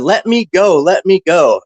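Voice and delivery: mock panicked yell. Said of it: "And he's yelling".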